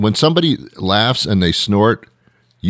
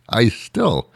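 breathless real laughter into the words; high, voiceless laugh while starting to speak; in stitches; 6 semitones higher, 3 dB quieter than usual. Real, not acted. Comedian still tickled by the blunder, in stitches. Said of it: "am in stitches about it".

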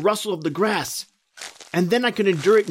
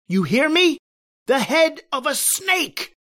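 horrified insistence; 7 semitones higher than usual. Acted. Insisting on the horror.

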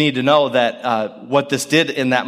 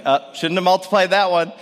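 rueful parent; 6 semitones higher than usual. Pretend. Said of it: "you're like".

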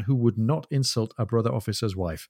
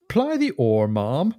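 puzzled surprise; slower than usual. Acted. Jack puzzled by her phrase.

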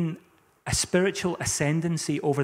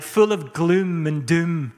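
slow, heavy emphasis on the gloom; hammed-up gloom; mock gloomy; 5 dB louder, slower than usual. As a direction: draw out the doom, louder. Mocking dull, gloomy Christians.

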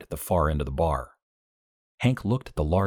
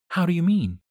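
put-on young woman June; 12 semitones higher, 3 dB louder than usual. A narrator's reading. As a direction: voice June high and dreamy. June voiced by narrator.

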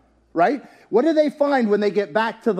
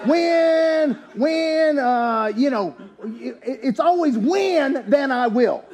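mocking excuse-maker; 3 semitones higher, much slower than usual.

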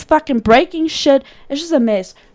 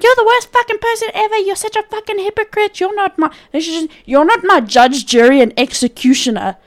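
high, fast mock screaming mother; mocking mom's rant; 6 semitones higher than usual. Daughter mimics her raging mother, high fast mock scream. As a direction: imitate the mother shrieking insults, pitched way up. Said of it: "She's screaming at me, shouting at me".

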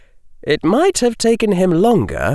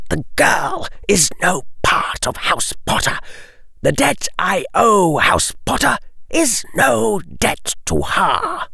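higher aristocratic voice; cold nobleman, flat denial; 10 semitones higher than usual. Acted. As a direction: dismiss her coldly. Lucius voice.

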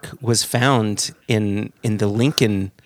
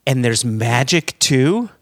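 put-on childlike amazement; 3 semitones higher, 4 dB louder, slower than usual. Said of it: "I said".

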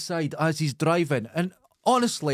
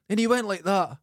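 normal talking voice

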